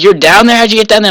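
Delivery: high, incredulous questioning; astonished stranger. Retold or imitated. Stranger questions swimmer stuck below dam, incredulous.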